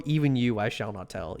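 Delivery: hammed-up dramatic whisper-low refusal; a lightly voiced stage vow, dropping low and soft; mock solemn vow. Dramatic refusal to tell chat.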